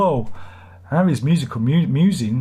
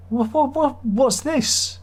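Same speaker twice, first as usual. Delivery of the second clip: high indignant "what, what, what"; outraged customer; 13 semitones higher, much slower than usual. Acted. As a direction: sputter at the waiter in disbelief.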